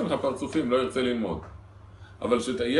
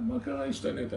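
surprised question; 13 semitones higher, 4 dB quieter than usual. Retold or imitated. Wife surprised by husband, high.

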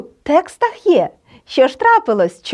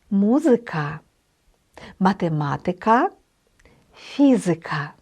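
МУзика, матеМАтика, ФІзика, stressed on the third-last syllable; stress third from end; 4 semitones lower, 5 dB quieter than usual. Shown as a demonstration. Teacher modelling Latin loanwords for learners, third-from-end stress on Музика, математика, фізика. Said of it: "наголос падає на третій склад від кінця".

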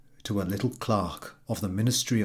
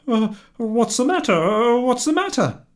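very high, loud worried husband voice; alarmed husband; 12 semitones higher, 7 dB louder than usual. A narrator's reading. Husband seeing his wife in tears, high and alarmed. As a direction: rush to her, alarmed. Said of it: "husband sees wife weeping".

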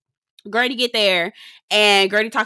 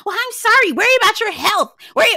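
high mock Larsa; 12 semitones higher, 3 dB louder, faster than usual. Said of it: "And here go Larsa".

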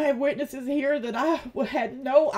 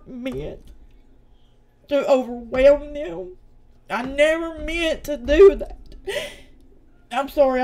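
emotional; 3 dB louder than usual. Real, not acted. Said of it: "I didn't mean to get emotional".

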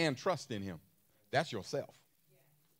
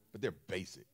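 quiet, dismissive; 6 semitones lower, 7 dB quieter than usual. Real, not acted. Preacher to congregation, softly calling desires basic. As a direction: drop to a softer voice on basic. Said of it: "that's why I said it like that".

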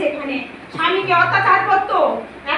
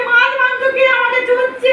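loud, higher accusing question; raging demand at the devotees; angry demand; 5 semitones higher, 4 dB louder than usual. Acted. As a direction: bark the question at them. Possessed woman demands angrily.

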